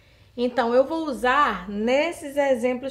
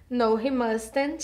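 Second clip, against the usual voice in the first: slow model answer; 2 semitones higher, much slower than usual. Shown as a demonstration. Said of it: "se a resposta for não".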